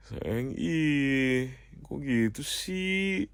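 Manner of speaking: drawn-out, rising whine; cutesy lover's complaint; whiny pleading. Acted.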